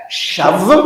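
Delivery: "Shav" alone, closing on a v; "Shav" with v, not b; separated first syllable. Shown as a demonstration. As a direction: split off "Shav" as its own syllable. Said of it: "Donc là, ça va faire quoi?".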